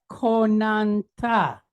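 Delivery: konanta drawn out syllable by syllable; sounded out. Shown as a demonstration. Teacher sounding out a word for the class, konanta slowly sounded out. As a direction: stretch each syllable of konanta. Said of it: "So what sound do we have here?".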